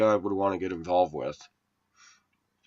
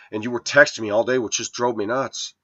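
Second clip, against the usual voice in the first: rude quote; 3 semitones higher, 5 dB louder than usual. Retold or imitated. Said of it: "very rudely".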